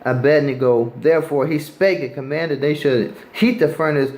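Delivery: preacher reading scripture to the street crowd. Acted. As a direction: read the King James verse aloud with weight. Rereads the verse and continues.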